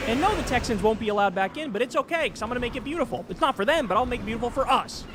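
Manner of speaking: lightly voiced smug conquering leader; a hint of a boastful leader promising casinos; mock Chinese president. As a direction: sell the land grab like a cheerful developer. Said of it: "the president of China says".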